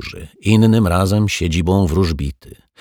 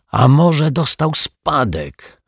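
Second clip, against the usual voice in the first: eager guess; 9 semitones higher, 3 dB louder, slower than usual. Acted. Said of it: "wymyślił pan Mietek".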